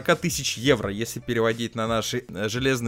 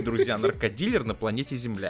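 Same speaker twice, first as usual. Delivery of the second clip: usual speaking voice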